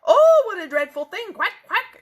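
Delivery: loud, high dismayed quack; exclaiming duck. Acted. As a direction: cry out in horror, then quack. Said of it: "exclaimed Ducky Lucky".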